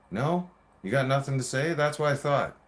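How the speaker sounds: heated, triumphant challenge; worked-up confrontation. Retold or imitated. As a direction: goad them, then claim the win. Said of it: "I get excited just talking about that shit".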